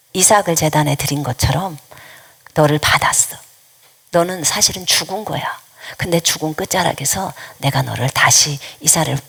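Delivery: low, measured voice with pauses. Retold or imitated. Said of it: "처음에 주님께서는 저한테". (낮고 차분하게 선포하듯)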